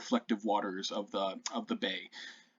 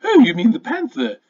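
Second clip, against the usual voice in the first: high, coy shopkeeper voice, much higher; sly shopkeeper; 9 semitones higher, 7 dB louder than usual. Acted. Shopkeeper teasing the party about the panther. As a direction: purr it like a flirty merchant.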